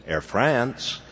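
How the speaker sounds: put-on lightly drawn-out Southern accent. Receptionist answering the airline's office phone, Southern accent. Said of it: "in her charming Southern accent".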